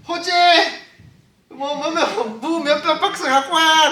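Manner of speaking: loud, high shout for a coworker; mock store-clerk holler; calling out. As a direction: holler an order to the back. Acts cashier calling a stock worker.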